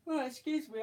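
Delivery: stretched by a big yawn. Real, not acted. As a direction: say it while yawning. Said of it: "I'm yawning my head off".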